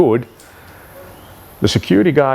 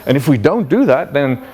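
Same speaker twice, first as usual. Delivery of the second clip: hammed-up justification, rising in pitch as it goes; insistent security guard; 4 semitones higher than usual. Security guard justifying panic buying to CEO, insistent. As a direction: build from smug listing to higher-pitched alarm. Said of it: "But the security guy goes like".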